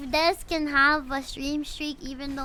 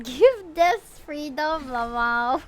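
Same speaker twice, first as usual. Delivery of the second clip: voicing the cat; 4 semitones higher, 8 dB louder, slower than usual. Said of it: "Hachi says".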